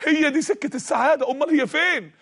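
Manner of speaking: a voice pushing him, half-shouting in his ear; screaming inner voice. Retold or imitated. Preacher voicing the tempting voice, mock yell. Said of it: "لقيت صوت بيصرخ في وداني".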